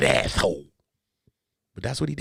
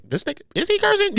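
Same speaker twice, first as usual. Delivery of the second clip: YouTube voice; faster than usual. Retold or imitated. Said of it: "YouTube be like this".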